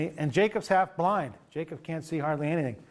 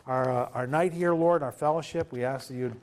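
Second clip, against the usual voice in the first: closing prayer; 2 semitones lower than usual. Acted. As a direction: pray gently over the group.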